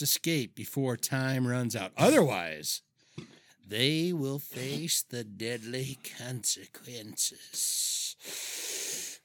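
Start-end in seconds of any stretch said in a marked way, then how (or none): 3.7-9.2 slow, dark trailer narrator; slow and sinister, like a trailer; ominous trailer voice. Acted.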